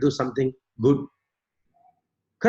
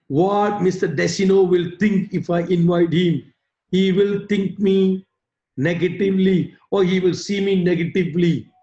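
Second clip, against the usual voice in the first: fearful self-talk; 4 semitones lower than usual. Acted. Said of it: "They always have the fear".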